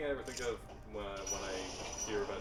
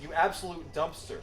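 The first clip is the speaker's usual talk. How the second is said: slow, louder British insult, higher; British accent; 7 semitones higher, 8 dB louder, slower than usual. Shown as a demonstration. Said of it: "with a British accent".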